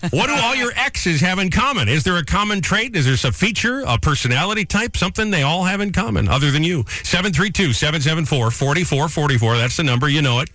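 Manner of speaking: upbeat radio host call-in read; radio contest promo. Acted. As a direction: pitch the phone lines like a DJ.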